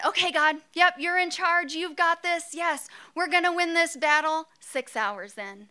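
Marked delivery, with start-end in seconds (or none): 0.0-4.5 Moses rallying, higher and louder; Moses impersonation. Pretend. Moses regathering himself, higher, eager. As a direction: Moses forcing himself to believe again. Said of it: "so here I am as Moses".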